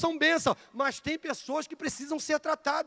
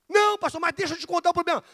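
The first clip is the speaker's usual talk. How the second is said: insistent church member; 6 semitones higher, 4 dB louder, faster than usual. Acted. Membro insistindo com o pastor.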